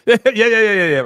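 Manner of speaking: bursting into high laughter; laughing yeah. Real, not acted. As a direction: laugh it off, amused. Laughing over viewer's text.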